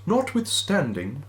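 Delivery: high wailing phantom; ghostly wail. Acted. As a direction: moan it like a restless ghost. Ghost's line in Dickens reading.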